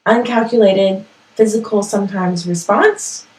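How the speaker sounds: careful explanation with long pauses; speaking slowly. Real, not acted. Host explaining emotion versus feeling to listeners, speaking slowly. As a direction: pause between phrases to get it clear. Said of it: "I'm speaking slowly".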